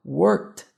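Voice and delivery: "worked" ending in a T; final T sound. Shown as a demonstration. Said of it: "a gente tem um T aqui".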